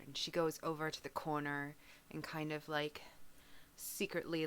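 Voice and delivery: usual speaking voice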